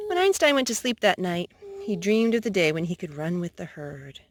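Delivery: gentle storybook narration; reading to children. A narrator's reading. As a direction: read it like a bedtime story. Reads picture book to child.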